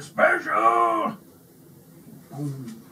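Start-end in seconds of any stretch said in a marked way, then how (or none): 0.0-1.2 high, loud astonished echo; surprised. A narrator's reading. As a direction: leap up in amazement. Baker's excited surprise.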